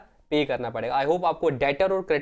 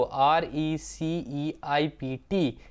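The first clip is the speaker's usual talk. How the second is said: slow, letter by letter; spelling out; 2 semitones lower, much slower than usual. Shown as a demonstration. Teacher spells the word for students, slowly letter by letter. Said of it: "इसको".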